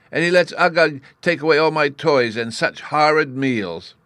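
put-on high, loud childish complaint; mildly tearful little-boy grievance; acted sobbing. A narrator's reading. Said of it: "he sobbed".

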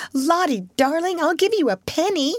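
high-pitched sweet-talk; coaxing. A narrator's reading. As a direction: bribe a screaming child gently. Jessie coaxing the screaming child.

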